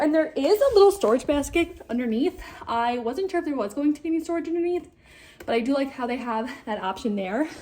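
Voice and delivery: loud, winded, out-of-breath voice catching air. Describing a product just tried out after loading it, out of breath. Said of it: "I am literally out of breath from doing this".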